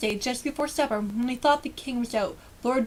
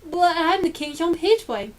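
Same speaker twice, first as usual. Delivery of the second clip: gasped protest; 5 semitones higher, 4 dB louder than usual. Acted. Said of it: "gasped Eric".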